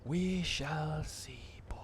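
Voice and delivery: slow, high, theatrical sage voice; mock wise master voice. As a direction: intone it like an old mentor.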